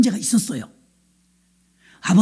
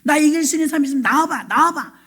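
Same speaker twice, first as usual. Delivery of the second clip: mildly raised taunt, acted; mock taunting giant; 3 semitones higher than usual. Goliath daring Israel's army to fight, mock taunting. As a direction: challenge them like a jeering champion. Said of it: "고래고래 소리를 지르면서 하나님을 조롱하는".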